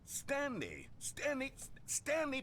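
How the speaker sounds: frantic pleading shout; calling out. Acted. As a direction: call him back in a panic. Narrator desperately calling Stanley.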